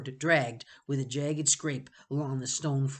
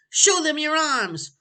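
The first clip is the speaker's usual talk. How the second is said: higher, louder slow shout; 13 semitones higher, 10 dB louder than usual. Acted. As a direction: bellow it slowly. Benny shouting on.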